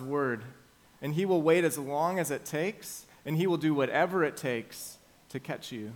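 urgent, ominous sermon warning; forceful preacher voice; preaching. Acted. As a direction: warn them of the lurking danger. Dramatic sermon opening.

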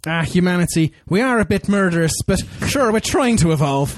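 a light, jokey Irish accent on a mock villain line. Podcaster mocking the script's villain speech, in a light Irish accent. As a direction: put on a playful Irish lilt. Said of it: "where did the Irish come from?".

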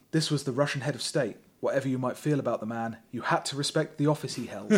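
ordinary delivery

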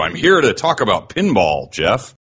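light mock announcer voice; a hint of a radio host. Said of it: "so now I have to do it too".

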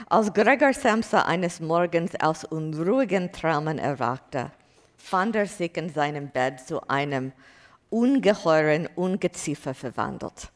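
reading aloud in German with a non-native accent; bad German accent. Shown as a demonstration. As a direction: read the German line in an imperfect German accent. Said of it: "in my bad German accent".

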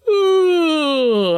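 high, loud vocalised yawn; long falling yawn on an "ooh"; big yawn. Shown as a demonstration. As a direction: stretch out a big yawn with a sliding sound. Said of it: "do a big yawn".

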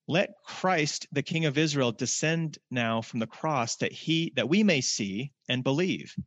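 slow, formal scripture reading. Acted. Preacher reading the crucifixion to the congregation, grave and slow. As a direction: read the scene with gravity. Reading resumes after comment.

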